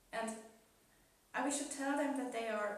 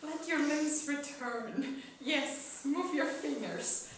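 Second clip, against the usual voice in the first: slow dramatic reading; 3 semitones higher, 5 dB louder, much slower than usual. Pretend. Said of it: "little more dramatic reading".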